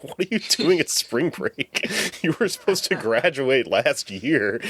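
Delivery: slow, laughing through the words; giggling while asking the question. Retold or imitated. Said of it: "I laughed really hard".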